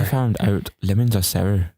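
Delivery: slow Irish attempt turning Scottish; drawn-out, botched Irish, sounding Scottish; accidental Scottish accent. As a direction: aim at Irish but slip into Scottish. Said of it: "That's Scottish".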